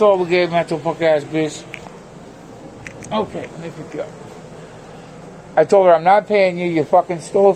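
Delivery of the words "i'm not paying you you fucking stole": loud, forceful telling-off; loud heated retelling; strong voice. Real, not acted. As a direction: lay down the law loudly. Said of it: "I'm in my strong voice".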